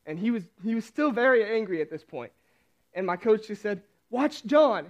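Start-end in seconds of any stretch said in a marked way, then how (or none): 4.1-4.9 retold yell. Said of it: "He, he yelled it really loud".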